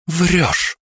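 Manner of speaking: high-pitched accusing outburst; sharp accusation. A narrator's reading. Interrogator accuses the captive.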